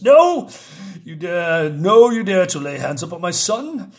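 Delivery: high, loud outraged cry of a mother queen; furious queen. Acted. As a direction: forbid them to touch her son. Goblin Queen defending her son.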